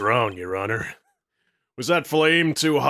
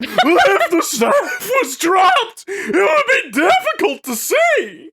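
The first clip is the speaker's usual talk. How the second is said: high overblown shouted villain voice; yelling a dramatic villain line; loud Godot line; 6 dB louder, slower than usual. Acted. Voices Godot, friends react.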